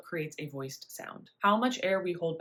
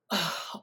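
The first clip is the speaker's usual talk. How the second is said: 1 breath release sigh. Shown as a demonstration.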